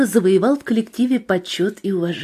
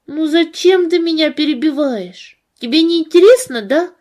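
put-on offended little girl; 7 semitones higher, 5 dB louder than usual. A narrator's reading. Girl protests interruption.

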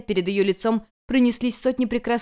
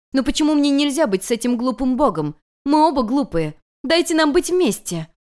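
much higher, louder sobbing plea; tearful cry; 7 semitones higher, 4 dB louder than usual. Acted. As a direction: beg through tears. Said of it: "воскликнула вновь разрыдавшаяся".

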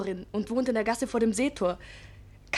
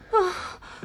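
groaning; 7 semitones higher than usual. Acted. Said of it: "stöhnst und ächzst".

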